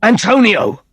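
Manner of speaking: high, loud call; shouted name. Acted. Victor yells for his brother to come and help, high and loud. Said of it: "Victor shouted".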